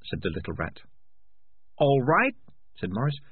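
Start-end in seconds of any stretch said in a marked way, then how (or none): 1.8-2.4 loud, high, incredulous echo; agitated cat, rising sharply. Acted. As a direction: throw it back as an outraged question. Morris throws the words back.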